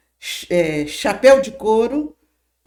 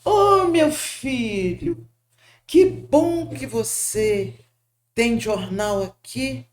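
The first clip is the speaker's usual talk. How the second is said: slow, gentle fatherly words; lightly voiced kind old man, slowed right down; gentle Chico; slower than usual. Chico greets the poor newspaper boy, slow and gentle. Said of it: "E o Chico disse pra ele".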